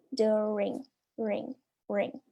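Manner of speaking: "During" sounded out, then "Ring" alone. Shown as a demonstration. Teacher drilling the ending of "during", syllable "Ring" repeated alone. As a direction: isolate "Ring" softly, its vowel close to "ee". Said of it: "I vai ter som de I".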